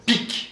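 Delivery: PIC as one short, pointed word; crisp p and k on "pic"; demonstrative articulation. Shown as a demonstration. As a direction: make "pic" sound like its meaning. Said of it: "c'est bien fait".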